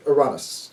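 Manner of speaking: "Uranus" as oo-RAH-nus; Greek-style pronunciation. Shown as a demonstration. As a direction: softly try "Uranus" with a Greek open AH. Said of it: "what the Greek pronunciation would be".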